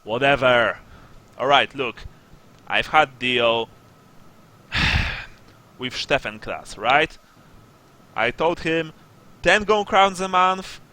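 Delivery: emphatic, impatient shakedown; stern sergeant. Acted. Sergeant confronts smugglers over a broken deal, stern. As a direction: lay down the deal with weight on key phrases.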